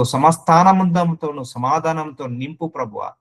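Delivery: sample prayer. Shown as a demonstration. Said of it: "ఈ వచనాలు నువ్వు పలకాలి".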